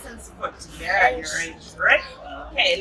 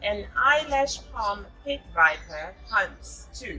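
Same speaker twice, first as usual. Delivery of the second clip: put-on reading a picture book aloud to a child; storybook narration, gently paced; story reading. A narrator's reading. Mother reading a jungle story to her child.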